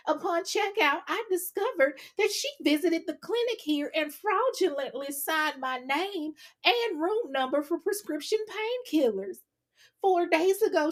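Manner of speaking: put-on country girl voice. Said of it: "you got the country girl voice ready?".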